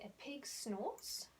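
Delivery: slow, clear model sentence; slow teacher model. Shown as a demonstration. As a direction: say it slowly for children to repeat. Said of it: "We say".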